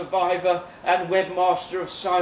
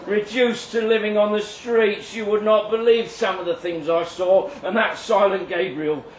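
bitter cult survivor. Acted. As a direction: spit out the grudge against the cult. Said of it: "Eric Jones, self-styled cult survivor".

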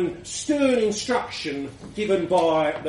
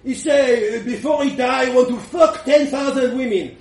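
laughing; 4 semitones higher, 4 dB louder than usual. Acted. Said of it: "Frenchie said".

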